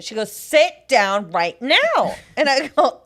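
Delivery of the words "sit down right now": slow, insistent command; pushy command. Retold or imitated. Imitating the girl ordering her to sit, slow and insistent. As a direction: lay down the order slowly. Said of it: "She's foaming at the mouth".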